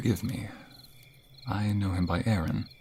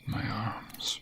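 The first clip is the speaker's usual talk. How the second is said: soft airy whisper; tender whisper; 4 dB quieter than usual. Acted. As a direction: hold her close and whisper. Embracing lover.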